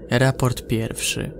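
ordinary delivery

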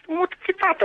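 pitched high, telling him to move out; angry shout. Real, not acted. Neighbour telling the caller to move, shouting angrily.

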